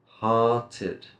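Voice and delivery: Hearted ending in a clear "id". Shown as a demonstration. Teacher drills the id sound, Hearted said distinctly. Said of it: "Id sound".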